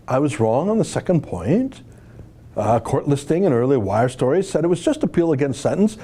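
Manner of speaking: put-on bubbly sorority girl voice; Valley Girl accent. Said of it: "I'm doing a Valley Girl accent".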